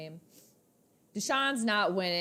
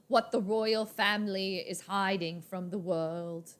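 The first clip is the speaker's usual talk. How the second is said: British headline; slower than usual. Acted. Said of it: "I saw a headline".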